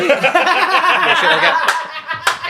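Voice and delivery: high, slow hammed-up British colonial; pompous English imperialist voice; British accent. Mocking his British side for a friend, hammed-up British accent.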